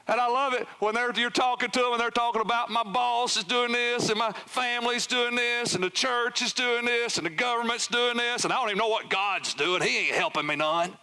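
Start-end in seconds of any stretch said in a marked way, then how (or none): 2.7-11.0 put-upon complainer, lightly imitated; mock complaining. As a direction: run through grievances in a rising whine of blame. Mimics people blaming everyone else.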